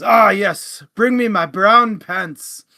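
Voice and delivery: milk the punchline with slow mock dignity; captain's punchline. Captain orders his brown pants before battle, slow hammed-up pomp.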